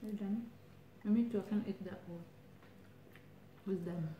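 speaking between bites; chewing while talking. Real, not acted. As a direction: mouth partly full. Seen 3: Puts food in mouth at -2; lips move chewing throughout words.

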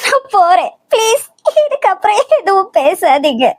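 tearful exit. Acted. Wife leaves crying.

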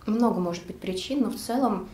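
chewing while talking; talking around a bite; mouth full. Real, not acted. Seen 2: Bites macaron at -3s; lips closed, working jaw while speaking.

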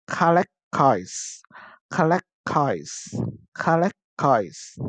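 "collect coins" with LECT stressed in "collect"; second-syllable stress. Shown as a demonstration. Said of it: "Collect dấu nhấn vần số hai". (đọc mẫu "collect coins", nhấn vần hai của "collect")

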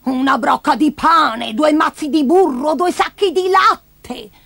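high, stretched, rising outrage; cranky old woman's drawn-out squawk; shrieking grandma. Acted. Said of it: "strillò lei".

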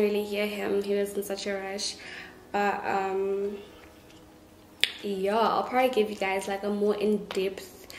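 slight lisp through brackets; careful speech around braces; speaking with braces. Real, not acted. Seen 4: Metal brackets visible on teeth while speaking; none seen in R frames.

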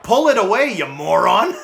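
high, loud, laughing yell at a teammate; exasperated yell. Real, not acted. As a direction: shout it half-laughing in disbelief. Yelling at AI teammate.

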